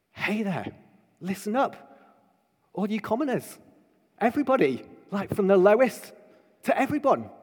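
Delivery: high-pitched call without shouting; calling to commoners. Acted. Preacher calling all the commoners to listen, high hailing voice. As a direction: hail the ordinary people in short, separate phrases.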